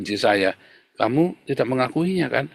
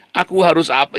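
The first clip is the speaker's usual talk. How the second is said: confused self-question; 2 semitones higher than usual. Shown as a demonstration. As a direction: ask it like someone lost in illusion. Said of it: "kalau kamu berhalusinasi dan berilusi".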